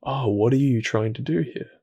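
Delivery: right way, soft open inquiry; loving curiosity. Shown as a demonstration. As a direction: ask it kindly, with genuine wonder.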